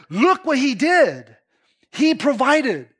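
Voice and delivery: slow awed "Look what he did", weight on "Look"; God-focused awe. Retold or imitated. Believer crediting God for answered prayer, slow awe. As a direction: give the credit away, marvelling. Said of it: "No, it's like".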